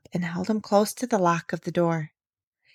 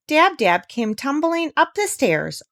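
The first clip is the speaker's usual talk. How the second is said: ordinary delivery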